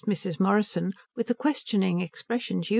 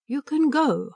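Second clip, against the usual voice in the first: cold curt dismissal, raised; withering put-down; 7 semitones higher, slower than usual. A narrator's reading. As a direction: dismiss her with contempt. Princess dismisses servant coldly.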